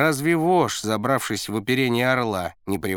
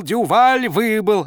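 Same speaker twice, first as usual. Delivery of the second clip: high loud slow cheer; jubilant coach; 9 semitones higher, 6 dB louder, slower than usual. A narrator's reading. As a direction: repeat it, still gloating. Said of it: "Тренер вдруг пустился в пляс".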